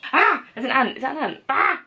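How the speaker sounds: startled cries over a bug. Real, not acted. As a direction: jump at the bug. Spots an ant.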